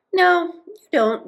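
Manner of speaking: high, slow, friendly contradiction; genial. A narrator's reading. Tootiki replying to Moomin Troll, genial. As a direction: lift the voice and correct them kindly. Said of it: "replied Tootiki genially".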